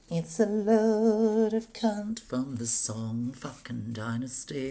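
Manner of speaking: real angry outburst, each word dragged out; furious shout. Real, not acted. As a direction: bellow it at the screen in real frustration. Cursing at the slow computer.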